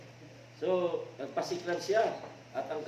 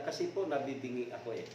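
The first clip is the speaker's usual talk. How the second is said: soft, quick, sheepish mumble; cowed drunk making an excuse; meek excuse; 3 semitones lower, 7 dB quieter, faster than usual. Acted. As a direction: back down timidly. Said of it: "Sabi niya".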